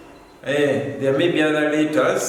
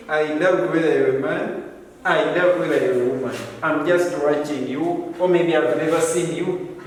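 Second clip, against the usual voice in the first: imitating reader's thoughts.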